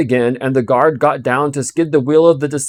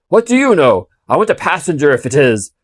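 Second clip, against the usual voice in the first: shouting back; 4 dB louder than usual. Acted.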